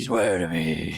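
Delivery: low movie trailer voice. Retold or imitated. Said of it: "My trailer voice is good".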